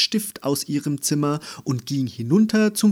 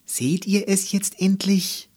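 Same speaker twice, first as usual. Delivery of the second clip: insistent question; 8 semitones higher, 3 dB louder than usual. A narrator's reading. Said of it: "fragte Andy".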